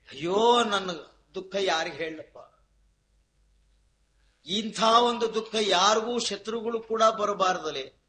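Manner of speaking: imitating a man wailing his woes; a mild, acted weepy complaint; mock lament. Weeping man to his friend, mock lament. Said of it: "ಅಳ್ತಾ ಕೂತಿದ್ದ".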